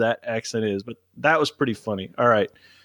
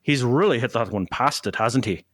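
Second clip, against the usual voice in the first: Faraday impression. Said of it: "There's your Faraday impression".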